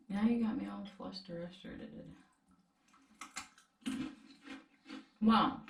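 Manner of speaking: talking while chewing; words through a mouthful of food; mouth full. Real, not acted. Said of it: "I shouldn't talk with my mouth full".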